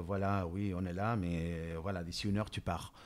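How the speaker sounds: soft, hushed words to his own fear; doux, presque chuchoté. Retold or imitated. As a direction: speak gently and low, as if soothing a frightened friend. Parle doucement à sa peur. (parler tout bas, doucement, à sa propre peur)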